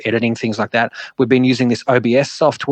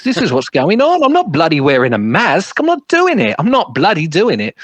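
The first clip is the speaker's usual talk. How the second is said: mock defiant ranting, jumps much higher on "I'm not doing it"; a light impression of a stubborn anti-mask rant; mimicking David Icke; 5 semitones higher than usual. Retelling David Icke's covid claims, lightly voiced defiant rant. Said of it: "he's telling everybody how it wasn't real".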